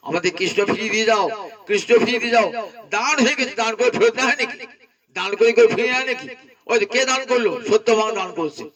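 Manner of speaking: high, fast, urgent crying out; the queens chase and beg for Krishna back; frantic pleading. Acted.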